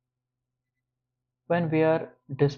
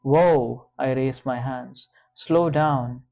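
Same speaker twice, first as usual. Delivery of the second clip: loud, steadying whoa; firm calming; 5 dB louder, slower than usual. Acted. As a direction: pull him back firmly. Trying to calm raging George.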